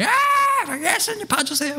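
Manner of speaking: high pleading call for help; crying out. Retold or imitated. Blind men calling to Jesus, high pleading cry. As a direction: call out to Jesus, begging to be seen. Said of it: "소리 지릅니다".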